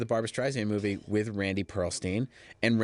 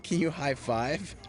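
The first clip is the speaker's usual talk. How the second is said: high, slow put-on diva request; mock Streisand; 5 semitones higher, much slower than usual. Streisand directing the extras, slow high put-on voice. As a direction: ask it like a grand star, drawn out. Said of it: "she's like".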